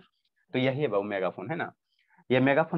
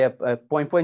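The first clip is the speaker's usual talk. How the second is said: a louder mock "पोई पोई" horn honk; horn imitation; 7 dB louder, slower than usual. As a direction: honk "पोई पोई" like an ice cream cart horn. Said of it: "जो करता है".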